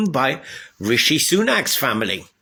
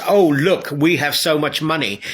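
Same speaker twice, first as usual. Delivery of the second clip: mock boast. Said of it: "So for a company to boast".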